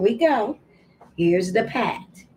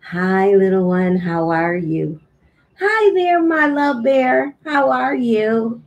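put-on greeting the baby. Shown as a demonstration. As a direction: coo hello to the baby. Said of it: "greeting the baby".

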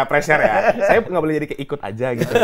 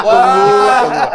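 high laughing wait; laughing plea to wait; 9 semitones higher, 9 dB louder than usual. Real, not acted. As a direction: laugh while calling for a pause. Laughing over teasing.

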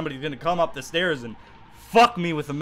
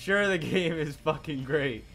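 sarcastic. Real, not acted. Ironic praise.

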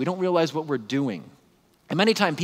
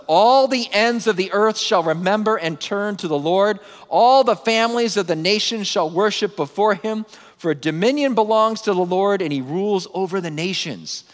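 raised, loud scripture declaration easing at the end; triumphant proclamation; 6 semitones higher, 5 dB louder than usual. Acted. Preacher reading the psalm's great climactic moment, triumphant proclamation.

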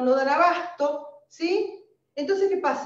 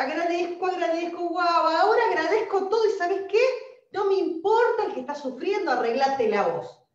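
mocking a smug person; 5 semitones higher, 4 dB louder than usual. Mocking selfish gratitude again.

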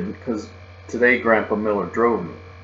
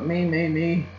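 eager calling out; 7 semitones higher, slower than usual. Acted. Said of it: "I hollered real loud".

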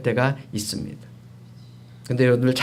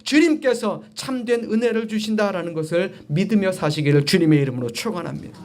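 emphatic preaching; 7 semitones higher than usual. Real, not acted. Preacher urging congregation to rely on God, emphatic preaching. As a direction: launch high, then ease down.

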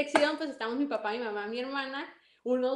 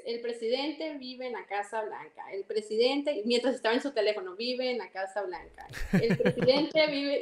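slow dictation. Retold or imitated. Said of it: "me la repitió como unas seis veces".

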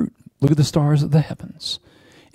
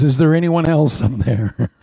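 laughing punchline. Retold or imitated. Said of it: "the guy looks up and goes".

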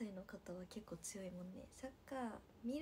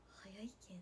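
low, soft Kansai-leaning lilt on Nagasaki dialect; slipped Kansai-tinged intonation; 4 semitones lower, 8 dB quieter than usual. Shown as a demonstration. Idol repeats her slip to viewers, Kansai-tinged intonation. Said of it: "って言った".

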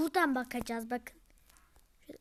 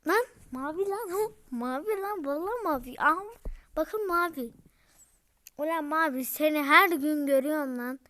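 excited recognition; 6 dB louder than usual. Real, not acted. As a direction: shout at the screen in delight. Recognizes the blue character, thrilled. (mavi karakteri tanıyınca heyecanla bağırarak)

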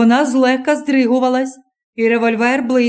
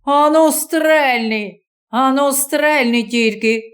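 mild taunting guard's yell; guard daring the stranger to fire; shouted; slower than usual. Acted. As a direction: dare him to shoot. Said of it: "закричав".

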